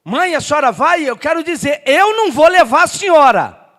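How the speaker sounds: imitating a son's loud refusal; retold shout. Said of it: "ele já gritou".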